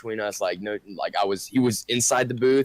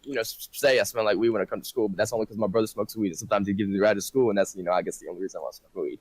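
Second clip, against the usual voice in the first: rapid, breathless excuse with no pauses; real fast; faster than usual. Retold or imitated. Student bullshitting the principal, rushed nonstop excuse. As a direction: rattle the lie off without a breath. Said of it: "said it real fast".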